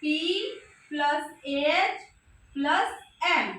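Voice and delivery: प्लस एएच प्लस एम spelled out slowly, sound by sound; slow breakdown. Shown as a demonstration. Teacher spelling the sounds out for students. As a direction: spell out the parts slowly and clearly. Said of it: "कैसे इसको करेंगे हम".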